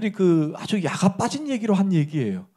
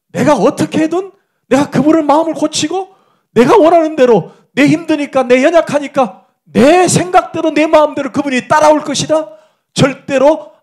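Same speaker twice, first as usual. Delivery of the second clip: higher and louder, preaching at full force; fervent preaching; 9 semitones higher, 10 dB louder than usual. Acted. Preacher proclaiming to the congregation, at full fervent force. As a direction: drive the truth home to the congregation.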